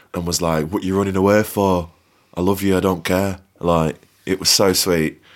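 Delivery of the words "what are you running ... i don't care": put-on accent from Preston. Speaker retells their eldest brother chasing them down the street, Preston accent. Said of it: "That's the Preston accent there".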